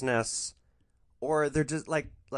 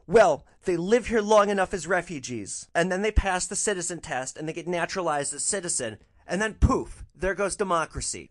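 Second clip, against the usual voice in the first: higher, louder caricature of the passenger; explaining lady voice; 5 semitones higher, 5 dB louder than usual. Retold or imitated. Passenger explains citizenship to driver: high mock voice. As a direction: spell it out in a pinched, high mock voice. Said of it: "And she says".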